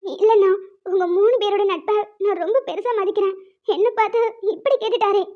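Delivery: tearful, wounded complaint; crying. Acted. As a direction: complain to a brother figure through tears. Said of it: "நீங்க அழாம உள்ள போங்க". (அழுதுகொண்டே புலம்புதல்)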